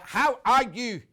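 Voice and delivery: loud, high, drawn-out Northern Irish lilt; Northern Irish accent. Acted. Presenter greeting a Northern Irish viewer, mock Northern Irish accent. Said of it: "That's my Northern Irish accent".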